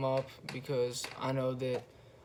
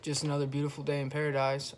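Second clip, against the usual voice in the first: brush-off remark; faster than usual. Retold or imitated. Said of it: "blow you off kind of fucking speech".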